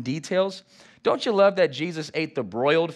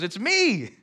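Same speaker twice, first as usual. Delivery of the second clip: voicing Jesus; 7 semitones higher, 4 dB louder, slower than usual. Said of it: "I love how Jesus goes".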